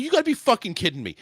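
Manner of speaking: retold indignant outburst; losing it. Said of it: "I lost it in my, on my supervisor".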